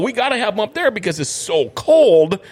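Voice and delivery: deadpan tall tale. Retold or imitated. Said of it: "and I go".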